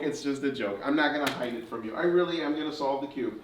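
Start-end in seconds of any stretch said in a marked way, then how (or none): 1.9-3.3 put-on showman patter for children; kids party magician. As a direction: build wonder like a stage magician.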